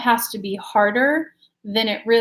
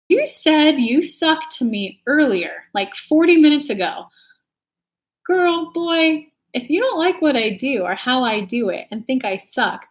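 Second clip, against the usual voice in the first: annoyed callout; 3 semitones higher, 3 dB louder than usual. Real, not acted. Streamer scolding a viewer who said she sucks, exasperated. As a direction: put the heckler in their place.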